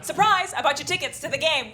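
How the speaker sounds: bursting out high and loud with surprise; hammed-up party host yelling surprise; mock surprise shout.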